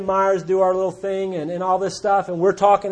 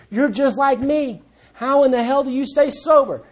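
higher-pitched, emphatic astonished question; retold amazement; 5 semitones higher than usual. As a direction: imitate a newcomer demanding the secret. Newcomer astonished, retold by sponsor.

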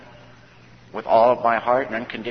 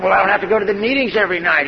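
high, louder wheedling plea; hopeful bargaining; 9 semitones higher, 6 dB louder, faster than usual. Retold or imitated. Newcomer trying to skip meetings, high hopeful wheedle. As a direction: angle for a way out, voice up high.

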